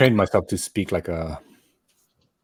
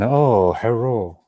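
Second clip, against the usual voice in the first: cartoonish fake Asian accent; mock Asian accent; much slower than usual. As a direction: caricature Asian accent on a greeting. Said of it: "a tiny Asian man".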